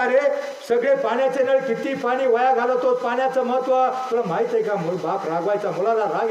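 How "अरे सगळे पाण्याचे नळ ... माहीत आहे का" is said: mildly raised, mock parental telling-off; scolding father. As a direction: imitate a nagging dad, only slightly heated. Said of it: "बाप ओरडायचा". (रागावणाऱ्या बापाची हलकी नक्कल)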